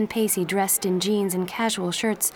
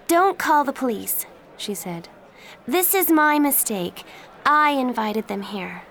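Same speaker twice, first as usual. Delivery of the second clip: urgent plea; 5 semitones higher than usual. Acted. Joey confesses to the aunt.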